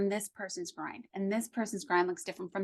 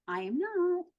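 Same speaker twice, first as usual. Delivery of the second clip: higher, scoffing denial; critical inner voice; 9 semitones higher than usual. Retold or imitated. Voicing the inner doubt about money, higher scoffing. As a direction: scoff at the idea. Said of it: "I have this voice".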